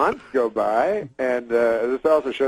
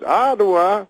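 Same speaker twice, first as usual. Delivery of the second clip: 1 Cosby impression; 8 semitones higher, 4 dB louder, slower than usual. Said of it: "He goes".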